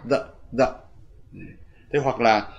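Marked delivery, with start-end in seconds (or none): 0.1-0.7 the said very short and reduced; weak form the. Shown as a demonstration. Teacher shows the weak short the. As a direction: clip the to a quick weak vowel. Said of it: "the đây không được đọc dài mà đọc rất ngắn".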